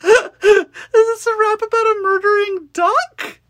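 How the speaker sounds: high squealing laughter; laughing hard. Real, not acted. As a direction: laugh through the words, delighted. Shrieking laughter at duck rap.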